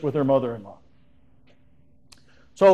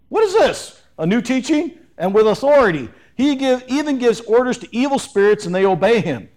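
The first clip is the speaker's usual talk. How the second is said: high, astonished "what is this"; amazed crowd; 4 semitones higher than usual. Acted. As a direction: sound stunned by what you just saw. Amazed crowd asks each other.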